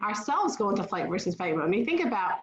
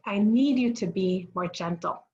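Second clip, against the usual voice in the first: measured parental request in an everyday pitch; calmly redirect the child; gentle correction. Acted. Parent redirecting a rough child to gentler play, calm correction. Models the positive alternative.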